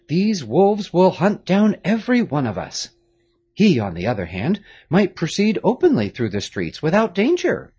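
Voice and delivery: a grave father giving orders, a touch of urgency; Marquis, grave father. A narrator's reading.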